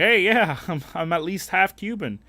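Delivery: high, loud mock bragging voice; mocking a poser. Mocking half-Cuban guys bragging, high loud mock voice. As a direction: brag it up high like a fake.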